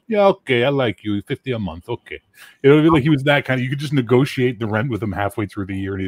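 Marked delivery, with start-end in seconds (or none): 0.1-2.2 easygoing landlord Joe. Retold or imitated. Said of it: "Joe is the kind of landlord".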